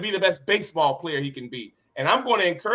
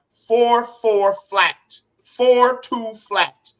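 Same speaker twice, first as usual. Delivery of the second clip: mock coaching shout; 6 semitones higher, 5 dB louder, much slower than usual. Father driving son on field.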